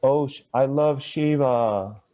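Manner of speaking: gushing slow line with "Shiva" as SHEE-vaah; mock devotee saying "Shiva" SHEE-vaah; mistaken long vowels. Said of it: "So if you say".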